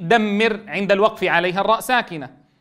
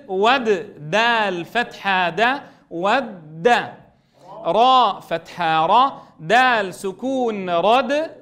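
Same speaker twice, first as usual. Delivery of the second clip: slow sing-song syllable spelling; spelling drill; much slower than usual. Shown as a demonstration. Teacher leading pupils through a spelling drill, slow sing-song. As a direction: chant each letter and syllable slowly, rising at each end.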